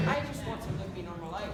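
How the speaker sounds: a light Irish lilt, wistful; Irish accent. Acted. Irish accent, sighing to the audience. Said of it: "speaking in an accent".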